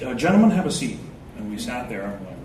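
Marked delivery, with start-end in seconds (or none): 0.0-1.0 a hint of a formal dad, gentlemen stressed; lightly voiced polite father; calm dad. Friend's father calling the boys in, mildly formal. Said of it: "he goes".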